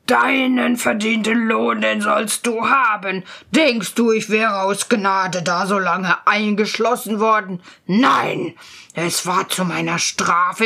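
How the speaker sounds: forceful, imperious ghost voice; menacing mighty spirit. Acted. Great Mercurius to his rescuer, menacing. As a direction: threaten as a vengeful giant spirit.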